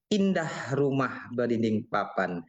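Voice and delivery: measured verse delivery, phrase by phrase; pantun recitation. Shown as a demonstration. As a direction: recite a Malay pantun with pauses and emphasis. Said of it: "itu kan contoh kita bawakanlah pantun".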